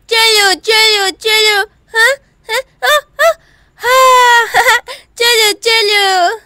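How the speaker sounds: put-on a little boy urging babies up the stairs; toddler coaxing. Toddler carries babies upstairs. (तोतली आवाज़ में धीरे-धीरे बुलाना)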